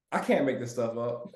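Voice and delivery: usual speaking voice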